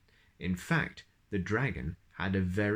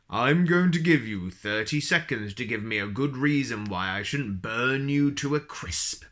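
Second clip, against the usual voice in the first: louder threatening dragon; dragon bellowing; 4 dB louder than usual. Acted. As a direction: boom the threat at him. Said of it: "bellowed the dragon".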